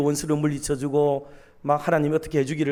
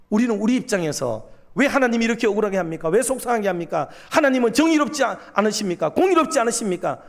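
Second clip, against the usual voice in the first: indignant questions, rising higher as they go; defiant protest; 4 semitones higher than usual. Acted. Prophet talking back to God for his people, defiantly. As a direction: challenge God, building in pitch. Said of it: "하고 막 대들었는데".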